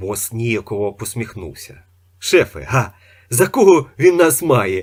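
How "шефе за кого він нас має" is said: loud, outraged, indignant outburst. In a read story, the right-hand one speaks up to the chief: indignant. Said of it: "обурився правий".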